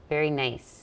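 tight Minnesotan vowels; lightly put-on Minnesota accent. Shown as a demonstration. Host trying out the local tightness, Minnesota accent. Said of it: "It's a little tight".

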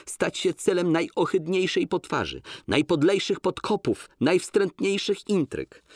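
heightened woman's voice, insistent; Łucja's voice. Acted. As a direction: refuse him, firm and pained. Łucja defends the professor.

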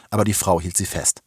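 ordinary delivery

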